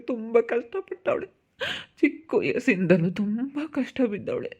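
acted tearful plea; weepy parent entrusting a daughter; crying. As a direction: beg through put-on sobs. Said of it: "ಸುಮ್ನಿರು, ಯಾಕ್ ಅಳ್ತಿ?".

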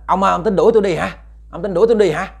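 high, strange ghostly challenge. Retold or imitated. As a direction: challenge him as the wronged ghost. Ghost confronts the exorcist.

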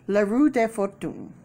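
light mock-French accent; French-ish accent, casually tried out; unidentifiable foreign accent. Shown as a demonstration. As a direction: put on a vague French-style accent. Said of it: "I don't know what accent that is".

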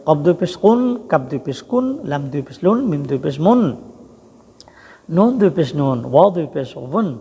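measured drill landing on "লুন", "নুন", "ওয়ুন" with an -un ending; pesh tanween demo. Shown as a demonstration. Teacher shows learners how double pesh is said, pronunciation demo. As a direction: spell each letter, then ring out the "-un" ending, as in "কুন", "মুন". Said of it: "পেশ যদি বলেন তাহলে এইভাবে".

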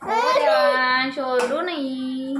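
a hammed-up, slow lament; mock wail. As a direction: wail to God, hamming it up. Playful despair while cooking.

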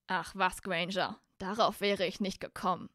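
dry, mildly sneering sarcasm; mocking Malfoy. Malfoy scoffs at Granger's obvious suggestion, mildly mocking. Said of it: "spottete Malfoy".

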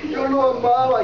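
high, hammed-up wail of a hired mourner; mock wailing mourner. Paid mourner wailing over a stranger, hammed-up mock grief. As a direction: fake grief over a stranger, played for laughs. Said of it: "iban a llorar".

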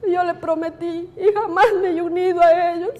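holding back tears; tearful. Real, not acted. Widow telling of her promise to her husband, tearful.

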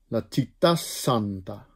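La città santa with the s in santa held long. Shown as a demonstration. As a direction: stretch the s of santa after città. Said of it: "De S wordt lang".

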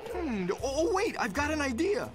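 high, excited realization; sudden inspiration. Acted. Lovesick friend hits on a plan, excited. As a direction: burst out with a new idea. Sudden idea for winning Gloria.

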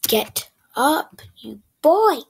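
yelling at the character. Real, not acted.

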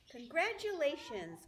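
high, loud cheer; shouted congratulations. Acted. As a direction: call it across the barn. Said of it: "shouted Wilbur".

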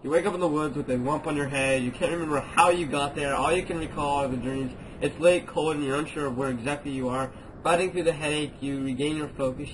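steady reading of intro text; story narration. Acted. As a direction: read it like a story opening. Reads game intro text.

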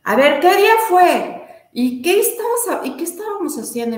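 high, loud, rapid-fire questions; eager questioning. Retold or imitated. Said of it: "me empieza a hacer así como unas preguntas".

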